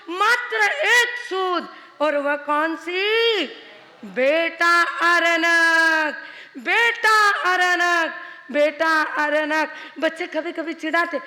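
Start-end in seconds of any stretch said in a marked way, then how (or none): 4.1-9.7 slow, longing call for a lost son; mother calling. Acted. Mother searching the streets calls her lost son, slow and longing. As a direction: draw out each call, aching.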